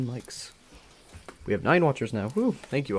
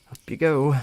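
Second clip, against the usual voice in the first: softly; 6 semitones higher, 6 dB louder than usual. Acted. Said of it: "Luna says softly".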